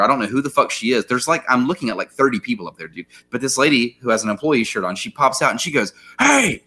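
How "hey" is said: high, drawn-out yelled hey; shrill-pitched mock yell from across the lot; retold scream. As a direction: imitate a woman screaming for attention. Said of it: "She screams".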